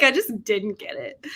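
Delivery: lightly sassy read-out; mildly sassy, imitating a commenter. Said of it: "I love how Kim is so sassy".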